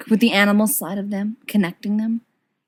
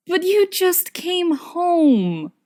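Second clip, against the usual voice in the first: Sirius protesting; 9 semitones higher, much slower than usual. Acted.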